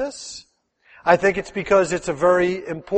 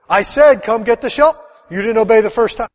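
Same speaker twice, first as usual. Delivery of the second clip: scolding dad; 4 semitones higher, 6 dB louder than usual. Retold or imitated. Dad scolding child who didn't obey.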